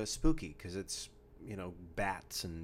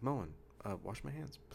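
polite request; 7 dB quieter than usual. Retold or imitated. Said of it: "His commercial's like".

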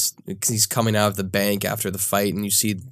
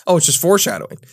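high-pitched, giggly echo; amused laughing; 8 semitones higher, 4 dB louder, much faster than usual. Real, not acted. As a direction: tease it through laughter. Listener laughing as she echoes him.

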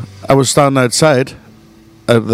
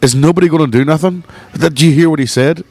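higher-pitched mock outrage; imitated outraged appeal; 5 semitones higher than usual. Insulted woman to bystanders, higher-pitched indignant appeal. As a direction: mimic her appealing to the crowd, pitched up.

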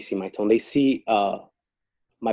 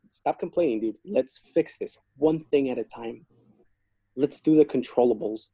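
like his dad; 2 semitones higher than usual. Retold or imitated. Guard lecturing the inmate like his dad, fatherly. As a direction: set him straight like a caring father. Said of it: "talking to him like I was his dad".

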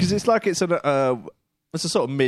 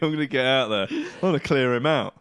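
mock call; 4 semitones higher, 4 dB louder than usual. Friend imitates him calling wife.

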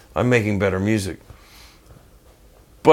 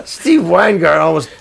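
ordinary talk

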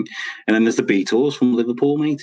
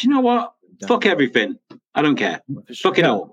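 defiant; 3 semitones higher than usual. Retold or imitated. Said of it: "they're just like".

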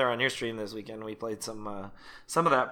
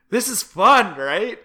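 excited quote; 7 semitones higher, 6 dB louder, slower than usual. Retold or imitated. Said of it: "you kept being like".

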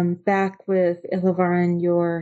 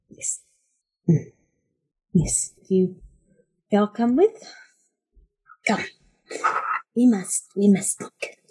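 creature; 3 semitones higher than usual. Acted.

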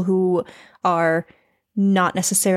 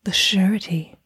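breathy whisper. Acted. Echoing partner in whisper.

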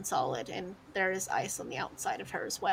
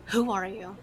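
stern interrogation; 3 dB louder than usual. Acted. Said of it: "she says".

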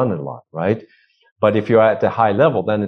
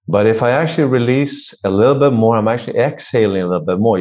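fuller, less scratchy. Shown as a demonstration. Coach showing the released voice, less scratchiness. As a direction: release the breath and free the voice. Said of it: "You have less of the scratchiness".

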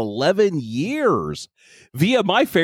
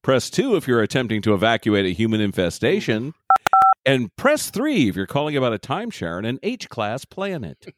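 phone menu voice; 3 semitones lower than usual. Pretend. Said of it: "like, the phone tree".

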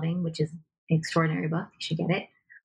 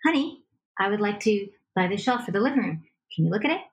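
same calm tone; faster than usual. Shown as a demonstration. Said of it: "broken record ... It's the same tone".

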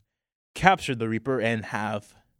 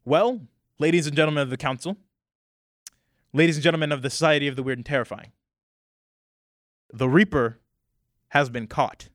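lightly voiced formal announcement, a bit higher; C K Walters announcing; 3 semitones higher, faster than usual. Walters announcing the Reaper's capture, formal and raised. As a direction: deliver the big news to the council. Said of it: "kind of steps forward and goes".

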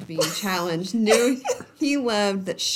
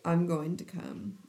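announcing softly; 2 semitones lower, 6 dB quieter than usual. Retold or imitated. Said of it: "I love the announcing".

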